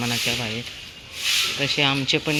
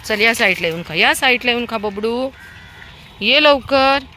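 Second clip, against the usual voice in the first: higher, louder coaxing; higher coaxing calls to pups; coaxing the puppies; 7 semitones higher, 6 dB louder than usual. Real, not acted. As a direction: lure the pups over to eat.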